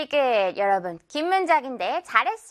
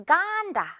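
"간다" as GAAN-da, higher, the 간 stretched long; stress on 간; 8 semitones higher than usual. Shown as a demonstration. Teacher shows which part to stress, long stressed 간 in "간다". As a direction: lean on and lengthen 간 in "간다". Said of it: "간 부분 강세 주면서 길게 끌어주면".

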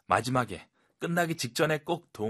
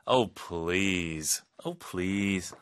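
falling, doubtful "Oh, please"; you don't buy the promise; disbelieving oh please; 2 semitones lower, much slower than usual. Shown as a demonstration. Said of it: "믿겨지지가 않기 때문에". (못 믿겠다는 "Oh, please")

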